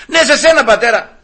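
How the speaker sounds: high insistent reply; calling out. Acted. Insisting to the stranger he is meant, calling out. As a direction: call back to the puzzled stranger.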